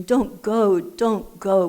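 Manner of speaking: loud pleading "Don't go", mock yell; retold scream. Lonely caller begging the phone volunteer, loud pleading. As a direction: beg them loudly not to hang up. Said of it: "And I would scream".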